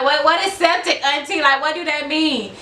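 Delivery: high-pitched, bewildered questioning; retold alarm. Niece asking auntie about septic, retold alarm.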